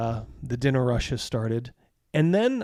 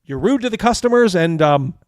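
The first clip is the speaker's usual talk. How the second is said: firm telling-off; 2 semitones higher, 6 dB louder than usual. Acted. Husband firing the rude cook, loud scolding. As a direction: put him in his place, loud.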